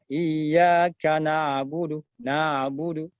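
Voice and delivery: slow "na'budu" with the ain streaming freely; wrong, ain flowing fully. Shown as a demonstration. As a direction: let the ain flow right through, wrongly. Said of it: "atau lewat utuh".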